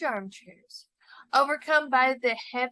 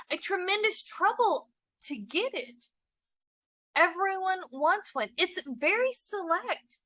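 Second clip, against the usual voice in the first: a lightly raised, hopeful husband's voice; eager husband; 5 semitones higher, 4 dB louder than usual. Acted. Husband urges his wife to be pleased, lightly voiced and eager. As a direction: coax her, proud of the invitation.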